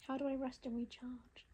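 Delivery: unvoiced hushed whisper. Real, not acted. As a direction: ask the cards in a whisper. Whispered question to the cards.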